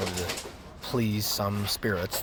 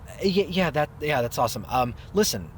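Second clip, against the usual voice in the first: awkward stalling; 6 semitones higher, 4 dB louder than usual. Acted. Awkwardly breaking news to sister.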